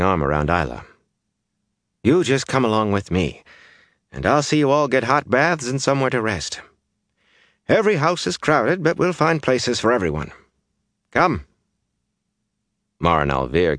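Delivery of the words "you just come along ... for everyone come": motherly, higher-pitched reassurance; kindly village woman taking charge; comforting. A narrator's reading. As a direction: take her under your wing. Days comforts refugee woman, smiling.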